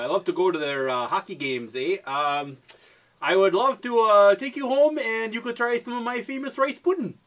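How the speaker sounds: put-on light Canadian accent, rising toward the end; playing a hockey-loving Canadian, lightly; mock Canadian accent. Friends guessing accents, faint Canadian accent put on.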